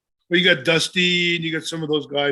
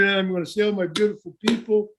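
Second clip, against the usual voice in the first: Pedro's promo; 5 semitones higher than usual. Retold or imitated. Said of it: "pretty much a standard".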